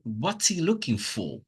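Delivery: "for" stressed with its full vowel. Shown as a demonstration. Teacher showing a stressed for, full FOR at the end. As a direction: keep "for" strong at the end of the question. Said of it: "That's stress".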